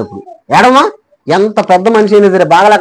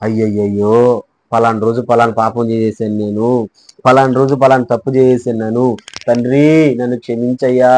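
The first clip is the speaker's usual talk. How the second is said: low, soft, mock-tearful confession; acted penitent lament; 8 semitones lower, 5 dB quieter than usual. Preacher acts a sinner begging the Father's forgiveness, penitent lament. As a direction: plead low and soft, as if weeping over sins. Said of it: "మీ పాపాల కోసం ఏడ్చుంటారా".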